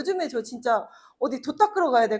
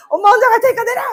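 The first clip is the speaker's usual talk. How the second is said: much higher, louder snapping shout; retold yell; 10 semitones higher, 10 dB louder, faster than usual. Mother yelling at her son in the car, high and loud. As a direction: shout at a noisy child in the car. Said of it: "차에서 소리 지르다가".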